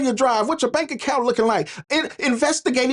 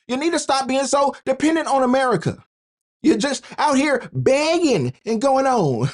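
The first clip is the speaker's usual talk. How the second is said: imitating the Kenyan president; 4 semitones higher than usual. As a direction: lecture them like the ex-president did. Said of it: "He said".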